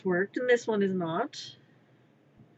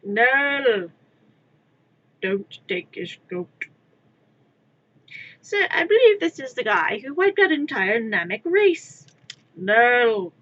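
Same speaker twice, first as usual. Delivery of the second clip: quoted cartoon shouting; 6 dB louder than usual. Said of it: "quoting D B Z abridged".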